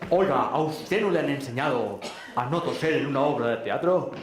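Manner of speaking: mildly hammed-up public telling-off; mock indignant reprimand from the stage; actor's scolding. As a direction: scold a coughing audience member, acting it out. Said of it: "para reñir a un tipo que estaba tosiendo".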